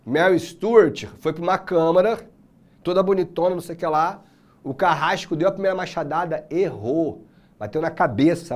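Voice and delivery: ordinary delivery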